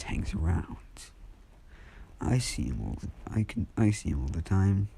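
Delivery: unhurried, casual explanation with long pauses; a hint of an eerily untroubled speaker; lightly acted monologuing. Izuku explains that Death hangs around, monologuing. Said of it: "monologuing, I guess".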